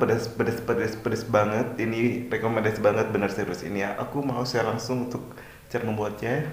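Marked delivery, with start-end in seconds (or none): 0.0-1.8 hot-mouth gasps, slow; spicy burn, words dragged out; mouth burning from spicy food. Real, not acted. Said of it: "membuat aku kepedesan".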